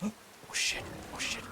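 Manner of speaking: startled gasp. Real, not acted. Spots a saber cat suddenly.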